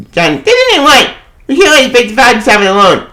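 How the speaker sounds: a lightly voiced anxious companion; worried friend. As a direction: beg him not to go alone. Voicing worried friend character.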